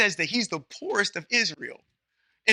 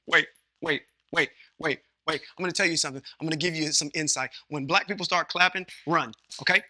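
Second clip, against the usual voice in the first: calming father; 4 semitones lower, 4 dB quieter, faster than usual. Retold or imitated. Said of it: "his dad is like".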